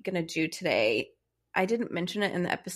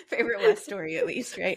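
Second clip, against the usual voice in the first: laughing; 6 semitones higher than usual. Real, not acted. Laughing with co-host.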